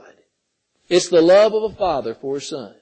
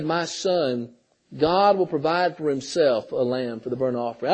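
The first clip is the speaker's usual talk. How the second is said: gentle reply; 7 semitones lower, 7 dB quieter than usual. Retold or imitated. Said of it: "a very gentle reply".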